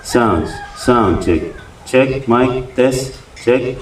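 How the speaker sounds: mic test with delay and repeat echo. Shown as a demonstration. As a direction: sound check through an echo effect. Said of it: "magkakaroon to ng echo".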